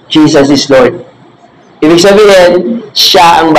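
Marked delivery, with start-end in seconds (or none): 0.1-1.0 calm low declaration. Shown as a demonstration. Modeling calm reply when hurt.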